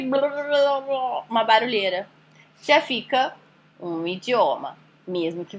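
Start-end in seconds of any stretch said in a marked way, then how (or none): 0.2-2.1 noisy blah-blah. Acted. Teacher mimicking a foreign language as noise, babbled blah-blah. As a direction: imitate a jumble of foreign babble. Imitating a noisy jumble of words.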